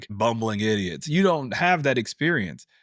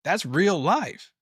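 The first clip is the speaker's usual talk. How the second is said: insistent; 5 semitones higher than usual. Retold or imitated. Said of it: "I'm like".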